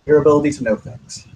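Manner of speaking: deadpan compliment, little pitch movement. Acted. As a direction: deliver the compliment straight-faced. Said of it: "kind of deadpan at this point".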